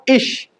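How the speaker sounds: इश with sh, not g; German IG sound. Shown as a demonstration. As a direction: say ig as इश, "ish". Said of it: "आईजी का pronunciation क्या होगा".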